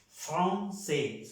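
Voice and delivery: "francés" as "fron-sé", split in two syllables; French nasal O. Shown as a demonstration. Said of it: "suena una O nasal". ("francés" como "fron-sé", con O nasal)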